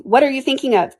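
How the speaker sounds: high, reproving question; severe. A narrator's reading. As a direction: demand it like a cross teacher. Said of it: "to Alice severely".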